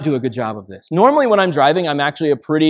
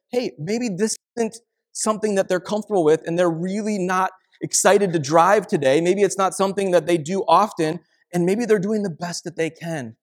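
gentle empathetic self-talk; 5 semitones higher than usual. Retold or imitated. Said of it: "What if you just said".

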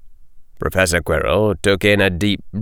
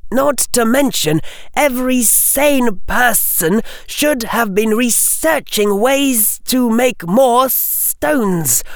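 high, terse hissing snake-speech; young snake speaker; 13 semitones higher than usual. Acted. Harry in Parseltongue.

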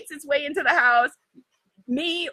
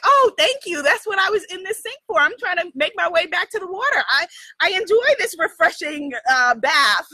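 grateful frog voice; 3 semitones higher than usual. Retold or imitated. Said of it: "the frog is like".

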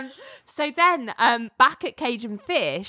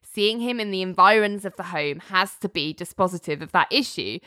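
lower, slightly brisk serious argument; 4 semitones lower than usual. Retold or imitated. Richard arguing to Judge Walsh, very seriously. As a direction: make the point soberly, pitched low. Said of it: "just very seriously for Richard".

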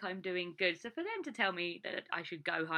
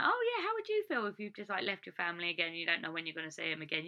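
exasperated retort; faster than usual. Retold or imitated. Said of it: "You know".

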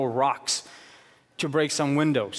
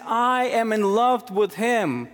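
higher, slower, proclaimed declaration of love; voicing God's love; 7 semitones higher, slower than usual. Pastor voicing God the Father about his son, proclaimed and slow. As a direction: declare it from the pulpit, drawn out.

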